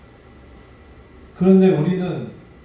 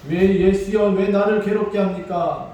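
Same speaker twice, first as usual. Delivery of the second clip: retold outcry; 4 semitones higher than usual. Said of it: "이렇게 외쳐요". (더 크게 외치는 흉내)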